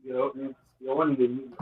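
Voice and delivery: very faint, distant voice; speaking far too softly into the phone; barely audible. Real, not acted. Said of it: "your voice is very low".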